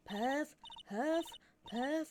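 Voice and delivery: breathless high panting words; huffing and puffing. Acted. Old lady out of breath from chasing, panting. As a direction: puff out each word winded. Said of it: "all that huffing".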